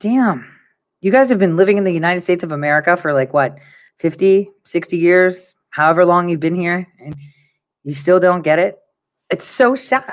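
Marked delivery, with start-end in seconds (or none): none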